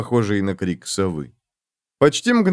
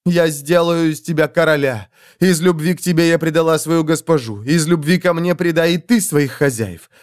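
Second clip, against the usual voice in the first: high, fervent pleading; sway him with passion; passionate pleading; 4 semitones higher than usual. Acted.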